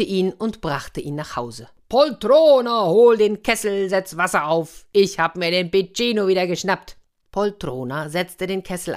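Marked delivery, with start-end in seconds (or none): 1.9-7.0 lauter Befehl des Orko, anfangs hoch gerufen; lautes Herbeirufen. A narrator's reading. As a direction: triumphierend durchs Haus rufen. Orko ruft triumphierend seine Frau. (laut rufend)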